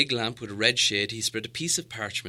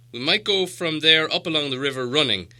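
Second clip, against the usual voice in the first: a touch higher, lifted dwarf voice; hopeful dwarf lord; 6 semitones higher, 8 dB louder than usual. Acted. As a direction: plan the route with new hope. Thorin continues, ignoring Gandalf.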